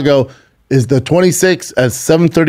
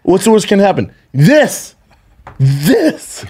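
mock victim; 6 semitones higher, slower than usual. Mock victim answering himself.

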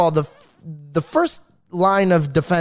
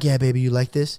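dirty talk voice; 6 semitones lower than usual. Retold or imitated. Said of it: "I get into character".

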